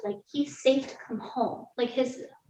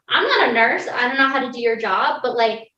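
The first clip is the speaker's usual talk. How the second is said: louder, heated pushback; standing up to the nurse, voice raised; retold confrontation; 6 dB louder than usual. Mother confronting the NICU nurse, heated and louder.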